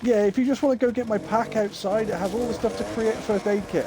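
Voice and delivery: high-pitched put-on voice of a game character; imitating a wounded woman, pitched well up; imitated injured woman. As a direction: plead for help in a mock high female voice. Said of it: "And she goes".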